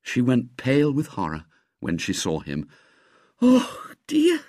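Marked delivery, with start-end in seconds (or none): 3.4-4.4 high, dismayed little "oh dear"; a gentle spinster caught off guard; lightly voiced old lady. A narrator's reading. Old lady dismayed at the ruined cat, high voice. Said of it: "she said".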